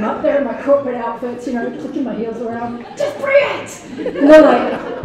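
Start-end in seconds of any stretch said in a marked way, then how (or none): 3.0-4.2 slow, laughing dare; mock defiant. Repeating her dare to critics, slow and laughing. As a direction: tease them to come at her.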